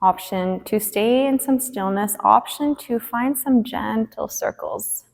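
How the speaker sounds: measured cueing with long pauses; spacious, unhurried movement cues; guided yoga instruction. Acted. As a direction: lead a gentle stretch, phrase by phrase. Leads gentle stretches on the mat.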